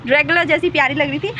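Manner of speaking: giggling through the words at her own joke; light self-mocking chuckle mid-line; laughing. Real, not acted. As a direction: laugh it out, teasing yourself. Joking about her own laugh.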